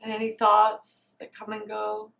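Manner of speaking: quiet meditation voice with long pauses; guided meditation. Real, not acted. Meditator noticing body, breath and soothing warmth, guided meditation. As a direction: settle into stillness, leaving space between phrases.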